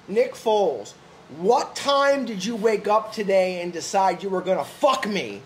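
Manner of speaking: crazy accusation. Retold or imitated. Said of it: "This is how crazy".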